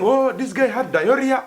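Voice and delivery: hammed-up rumour; mock gossip voice. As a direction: tell the juicy rumour, drawn out. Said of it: "Others are saying".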